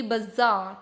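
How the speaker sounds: bazaar said the British way, buh-ZAAR; British bazaar with a reduced first vowel; British pronunciation. Shown as a demonstration. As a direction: model the British bazaar slowly. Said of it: "British pronunciation की".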